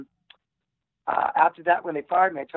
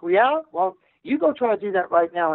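mock defiant retort; 9 semitones higher than usual. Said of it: "And you're like".

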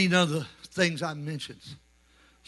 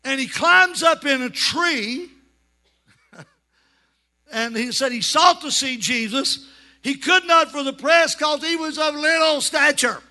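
full-voiced preaching; 9 semitones higher, 4 dB louder than usual. Real, not acted. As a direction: preach the story out to the congregation. Preaching the Zacchaeus story.

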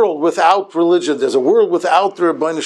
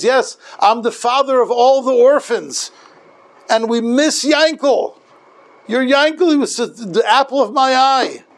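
heartfelt pleading rabbi; 7 semitones higher than usual. Retold or imitated. Rabbi asking a mother for her son, heartfelt pleading. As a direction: plead like a doting father figure.

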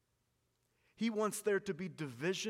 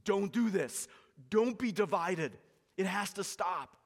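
louder pleading; 3 semitones higher, 5 dB louder than usual. Retold or imitated. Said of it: "Paul getting on his knees and pleading".

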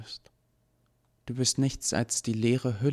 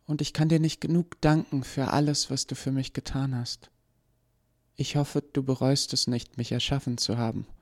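much higher, gentle sorrowful voice; sad farewell; 8 semitones higher than usual. Acted. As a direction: say goodbye to her maker with sadness. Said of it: "lächelte ihm traurig zu".

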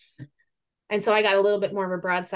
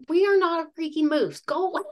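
raised, higher shout at the charging moose; mock yell, much higher and a bit louder; retold yell; 8 semitones higher, 4 dB louder than usual. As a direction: yell it out to make him turn. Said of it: "So I yell at him again".

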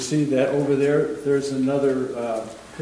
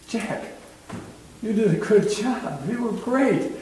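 higher-pitched, encouraging praise; acted praise; 8 semitones higher than usual. God praising a believer's life, higher and approving. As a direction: voice God commending his child.

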